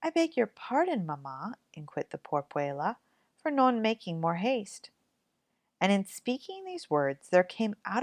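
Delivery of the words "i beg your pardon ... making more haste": meek apology. Acted. Girl apologizes to scolding mother.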